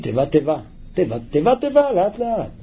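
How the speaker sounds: unhurried, word-by-word demonstration. Shown as a demonstration. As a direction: repeat it carefully, no rushing. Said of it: "לא צריך לרוץ מדי".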